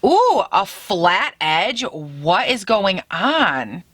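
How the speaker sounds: slow, wondering ooh; drawn-out amazement. Real, not acted. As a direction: savour the surprise slowly. Marvels at the pencil.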